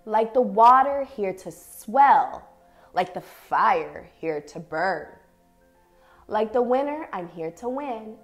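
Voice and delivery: measured, expressive picture-book reading with long pauses; reading to children. Acted. Teacher reads an affirming picture book to young dancers, expressive story reading. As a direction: read each short phrase deliberately, letting it settle.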